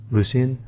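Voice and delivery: "Lucian" as LOO-see-an; Jagex version. Shown as a demonstration. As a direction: say "Lucian" with a clear S sound. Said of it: "according to Jagex, it's pronounced".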